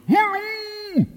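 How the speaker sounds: very high, drawn-out hallo; calling back. Acted. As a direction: answer with a long high call. (högt, utdraget svarsrop)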